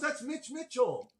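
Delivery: amazed. Retold or imitated. Repeating the drummer's name to the listener, awed. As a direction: savor the disbelief. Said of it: "I looked and I went".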